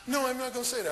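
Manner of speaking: woman refusing. Retold or imitated. Retold woman refusing him.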